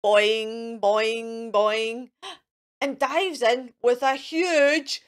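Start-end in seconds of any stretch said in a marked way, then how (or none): 0.0-2.1 bouncy boing. Acted. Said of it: "Mister Wolf goes".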